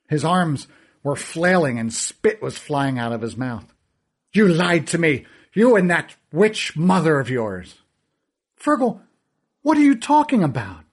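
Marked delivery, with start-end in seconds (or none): 4.4-7.8 louder, spitting fury; angry shout. Acted. Fergal flies at the narrator, a furious shout. 8.6-10.8 much higher, alarmed and baffled; bewildered. Acted. Narrator to the raging Fergal, high alarmed bewilderment.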